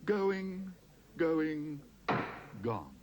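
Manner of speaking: pleading auctioneer. A narrator's reading. Auctioneer pleading then closing sale.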